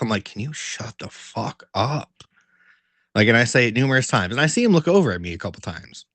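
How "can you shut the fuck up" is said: slow, soft muttered complaint; under my breath. Retold or imitated. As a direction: grumble it under your breath, slowly. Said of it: "kind of under my breath".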